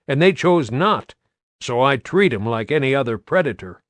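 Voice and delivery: blunt farmer talking pests; lightly voiced farmer. Farmer telling soldiers about pests, lightly gruff country voice.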